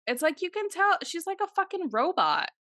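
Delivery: high, incredulous rant; exasperated. Real, not acted. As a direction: pitch it up in exasperated disbelief. Ranting about vacant Raquel.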